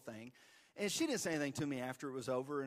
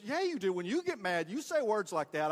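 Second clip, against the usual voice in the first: put-on higher, louder child cutting in; blurting kid; 6 semitones higher, 5 dB louder than usual. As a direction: pipe up like a cheeky son. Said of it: "He goes".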